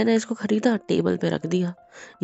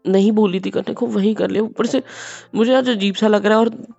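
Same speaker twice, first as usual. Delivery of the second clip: loud, higher-pitched angry scolding; 5 semitones higher, 8 dB louder than usual. Acted. Husband angrily scolding his wife for disobeying. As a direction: snap at her for disobeying.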